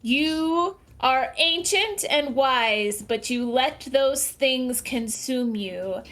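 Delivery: slow, grand bard's declamation; bardic voice. Acted. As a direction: proclaim it like an epic bard. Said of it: "say in my best bardic voice".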